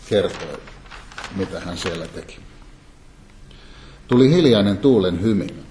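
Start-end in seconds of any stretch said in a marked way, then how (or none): none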